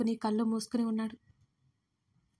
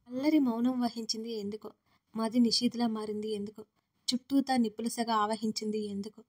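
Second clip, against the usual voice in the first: poem recital. A narrator's reading. Narrator closes the episode with a poem, lyrical recital.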